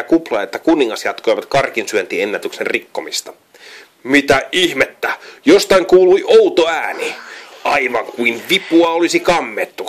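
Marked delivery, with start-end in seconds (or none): 4.0-9.9 puzzled pig. A narrator's reading. A pig in the hall wonders about the noise, baffled. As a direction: sound confused by a strange noise.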